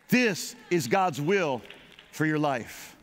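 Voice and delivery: shouted declaration. Real, not acted. Preacher proclaiming to the congregation, shouted. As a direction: call it out to the hall.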